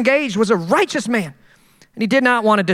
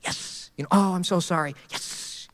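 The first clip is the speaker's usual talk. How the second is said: fake sympathy; 7 semitones lower, 10 dB quieter than usual. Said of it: "and it's like".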